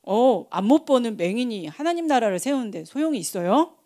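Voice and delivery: usual speaking voice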